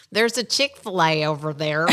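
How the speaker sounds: a light Southern twang on "There's a Chick-fil-A over there"; Southern accent. Retold or imitated. Mother at Nashville airport pointing out food to son, mild Southern accent. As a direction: let a Southern accent slip out without meaning to. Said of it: "Apparently I have a Southern accent".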